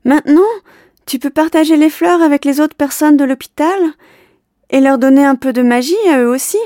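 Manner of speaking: high, loud call; girl urging the boy loudly from below; cheerful shout. Acted. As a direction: keep calling up happily. Calling up to the window.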